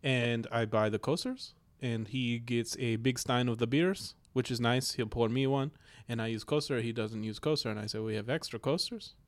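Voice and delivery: lightly voiced Russian roommate, broken English; Russian accent character. Roommate complaining about coasters, light Russian accent.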